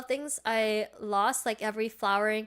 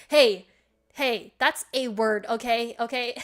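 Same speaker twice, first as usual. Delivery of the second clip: mock defensive; 4 dB louder, slower than usual. Real, not acted. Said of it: "doesn't need to be said in a funny manner".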